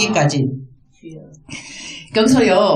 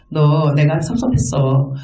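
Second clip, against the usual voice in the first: low, slow mild reproach; hurt, let down; 6 semitones lower, slower than usual. Acted. God telling his people of hurt, understated disappointment. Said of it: "자기 섭섭한 말씀을 하십니다".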